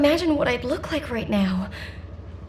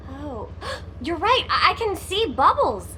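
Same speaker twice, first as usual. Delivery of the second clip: a startled gasp at the leak. Real, not acted. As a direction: catch your breath, then realize.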